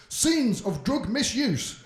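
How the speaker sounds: slow, loud, formal warning voice; solemn on-screen warning read; warning announcer. Shown as a demonstration. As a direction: intone it like an official disclaimer. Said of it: "That's how they word it".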